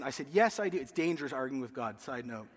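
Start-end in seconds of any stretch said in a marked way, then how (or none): 0.3-0.8 insistent protest. Retold or imitated. Arguing with God, insisting.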